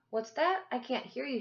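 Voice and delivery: big, high booming question; large voice. Acted. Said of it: "Her voice was large".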